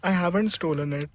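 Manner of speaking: weird maid voice. Acted. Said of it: "played by the speaker in a very weird voice".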